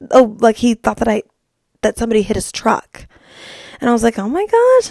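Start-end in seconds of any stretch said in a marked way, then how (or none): 4.2-4.9 high-pitched mock gasp of excitement; excited. Host reenacting her reply to a text, excited. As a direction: gush it in a high, stretched voice. Reacting in retold text exchange.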